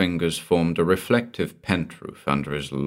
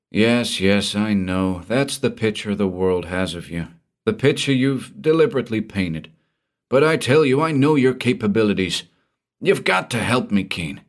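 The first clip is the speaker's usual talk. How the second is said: pitched up, pleading in a panic; frantic pleading; 4 semitones higher than usual. Acted. Frightened man begging the detective for help, frantic. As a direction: beg for help, near panic. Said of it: "the frantic depths".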